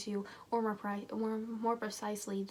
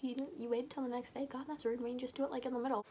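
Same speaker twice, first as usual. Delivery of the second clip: scowling tease; 3 semitones higher, faster than usual. Acted. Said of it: "Jesse scowls".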